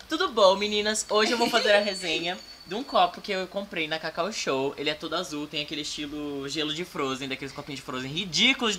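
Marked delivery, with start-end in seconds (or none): 0.1-4.7 lightly played bubbly blogger; a hint of a chirpy product reviewer; influencer voice. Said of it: "fazer que nem blogueira". (voz de blogueira animada, leve)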